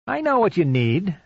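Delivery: creepy caller. Acted. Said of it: "Streck said".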